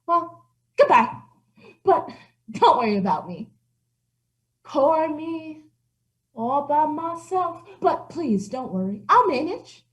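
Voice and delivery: milk the pity for sympathy; self-pitying old cat. Acted. Old cat pities herself.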